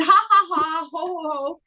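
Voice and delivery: forced rhythmic ha ha ho ho ho; fake laughter exercise. Shown as a demonstration. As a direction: laugh on purpose, syllable by syllable. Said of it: "We got the laughter going".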